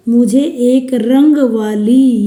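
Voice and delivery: रंग वाली pressed, slow; stress on रंग वाली. Shown as a demonstration. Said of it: "यानी जोर दे करके बोल रही हूँ".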